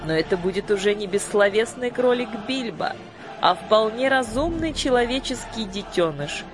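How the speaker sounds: high, commanding fairy-queen voice; imperious sorceress. A narrator's reading. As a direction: proclaim it from the throne. Lady Batp speech.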